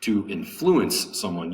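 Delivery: "influence" stressed on FLU; second-syllable stress. Shown as a demonstration. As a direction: hit the middle syllable of "influence". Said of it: "The second syllable has the accent".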